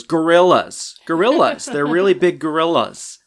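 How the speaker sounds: loud, high panicky cry; alarmed gorillas. Acted. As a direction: blurt it out in alarm. Eric cutting in, alarmed.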